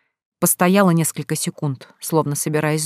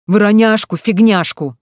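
louder, higher derisive echo; mocking mimicry; 4 semitones higher, 7 dB louder than usual. A narrator's reading. Husband mimicking his wife's excuse, mocking. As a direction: parrot the word back with scorn. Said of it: "передразнил её муж".

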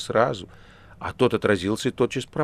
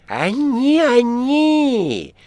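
high, loud bleating sing-song; goat voice; 14 semitones higher, 7 dB louder, much slower than usual. A narrator's reading. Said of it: "козлиным голосом запел". (козлиный голос)

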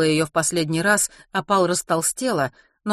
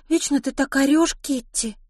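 put-on high-pitched, complaining young mother; plaintive whine; 9 semitones higher than usual. Opal complains of Kitty's yelling, plaintive and high. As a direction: whine the reproach. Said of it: "жалобно проговорила Опал".

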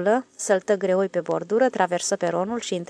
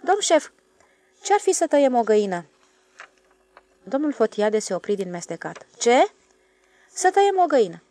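cheerful; 4 semitones higher, 4 dB louder than usual. Acted. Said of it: "cu o expresie de veselie".

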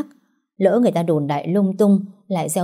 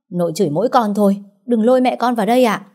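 heated protest; 4 semitones higher, faster than usual. Acted. Nụ defending her mother to grandma, fast and heated. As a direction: rush the words out, pushing back hard.

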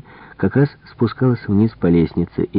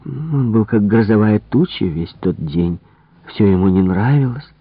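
higher, animated servant voice; gossiping maid; 4 semitones higher than usual. Acted. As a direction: dish about the master's temper.

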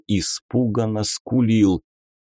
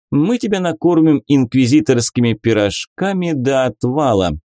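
lady inquisitor voice; 3 semitones higher than usual. Acted. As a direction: play a coy, mocking lady. Beatrisa, playful inquisitor lady. (игривая дама-инквизитор)

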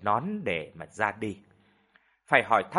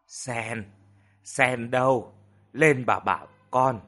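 mild call to a servant; slower than usual. Acted. Sick mistress calling the maid Sen, mild summons. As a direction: summon someone from another floor. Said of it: "bà gọi".

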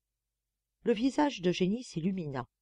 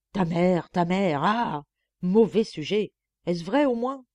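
mock scolding; 6 dB louder than usual. Eugénie scolds the boy.

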